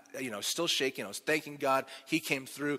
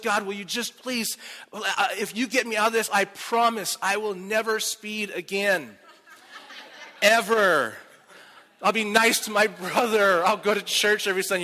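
higher, earnest promises to God; hammed-up plea to God; mock bargaining prayer; 5 semitones higher than usual. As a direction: bargain your way out. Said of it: "I started pleading with God".

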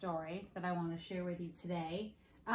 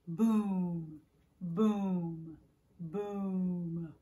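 thunder boom; 3 semitones lower, 3 dB louder, much slower than usual. Acted. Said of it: "Mister Brown is a wonder".

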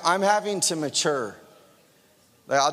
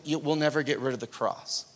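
usual speaking voice

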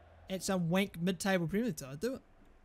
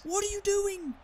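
very high, drawn wail of disbelief; real incredulous outburst; exasperated cry; 12 semitones higher, slower than usual. Real, not acted. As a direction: wail at your teammate in despair. Exasperated at teammate's play.

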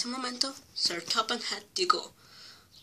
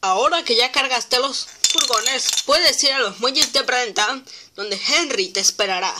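loud foreman voice; 3 semitones higher, 6 dB louder than usual. Acted. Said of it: "dijo el jefe de la cantera".

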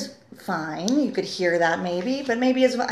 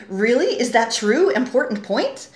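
secondary character questioning; 2 semitones higher, 4 dB louder than usual. Acted. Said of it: "Secondary character".

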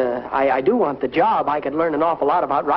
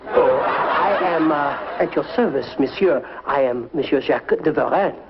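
bad French accent. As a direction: introduce yourself grandly in fake French. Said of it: "a very bad French accent".

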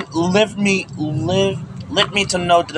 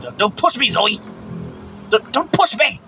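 scared pleading; 3 semitones higher than usual. Real, not acted. Pleading with friend in game.

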